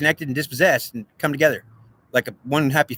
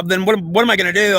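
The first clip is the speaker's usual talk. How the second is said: angry outburst; 5 semitones higher than usual. Real, not acted. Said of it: "yelling or being angry".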